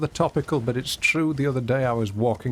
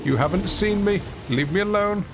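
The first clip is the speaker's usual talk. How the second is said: playfully exasperated, building to a higher plea; insistent shooing; 4 semitones higher than usual. Real, not acted. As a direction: shoo them off, getting more insistent. Shooing an interrupter away, building.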